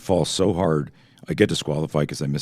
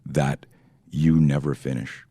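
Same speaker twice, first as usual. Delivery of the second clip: caring coach. Retold or imitated. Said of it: "put his arm around me and said".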